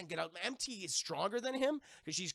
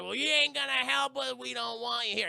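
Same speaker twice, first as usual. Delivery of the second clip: mock rejection; 7 semitones higher, 7 dB louder than usual. Characters rudely turn him away.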